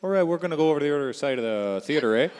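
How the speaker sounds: super Canadian. Pretend. Host moving to audience questions, exaggerated Canadian accent. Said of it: "super Canadian for the rest".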